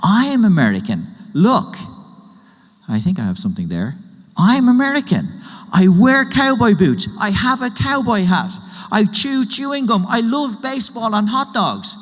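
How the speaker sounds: proud wannabe cowboy. Retold or imitated. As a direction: show off like a kid playing cowboy. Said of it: "my son's friend says".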